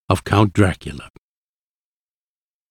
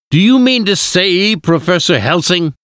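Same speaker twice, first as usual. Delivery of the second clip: angry shout; 9 semitones higher than usual. A narrator's reading. Husband challenging the professor's plan, shouting angrily. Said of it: "he shouted".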